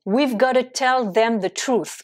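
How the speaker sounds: "We've gotta" with V kept; slow demo of "We've gotta"; contracted we've gotta. Shown as a demonstration. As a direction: run "got to" together as "gotta" after "We've". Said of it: "avec gotta".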